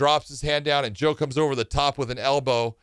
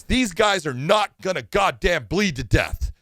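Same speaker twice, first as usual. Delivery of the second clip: emphatic, raised-pitch scolding; retold firm lecture; 5 semitones higher than usual. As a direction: lay down the law as the doctor. Retold doctor firmly lecturing the referee.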